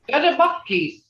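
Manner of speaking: demonstrated mad tone, pitched well up. Shown as a demonstration. Teacher showing class how to say they're mad, demonstrated mad tone. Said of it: "that tone, you can say this".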